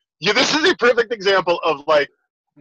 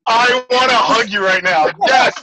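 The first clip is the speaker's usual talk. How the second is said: delighted shout; 3 semitones higher, 4 dB louder than usual. Real, not acted. Delighted at the right answer.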